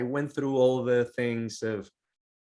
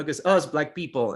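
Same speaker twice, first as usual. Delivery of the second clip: quoting own past remark; 6 semitones higher, 7 dB louder than usual. Retold or imitated. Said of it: "I said something along the lines of".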